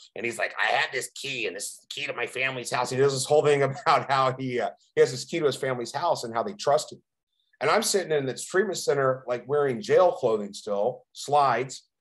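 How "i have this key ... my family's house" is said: put-on raspy man's voice. Quoting a man who told his story, in Adolfo's raspy voice. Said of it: "he has this really raspy voice and he talks like this".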